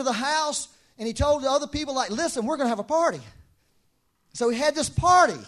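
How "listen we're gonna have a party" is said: loud, fast, high call; rally everyone to celebrate; excited announcement. Acted. Father telling the household, excitedly.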